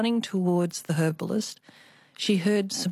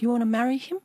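put-on Chinese accent; 5 semitones higher, faster than usual. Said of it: "I always have to do the Chinese accent".

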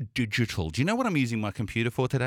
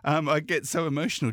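near tears; 5 semitones higher than usual. Real, not acted. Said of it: "I'm literally about to cry".

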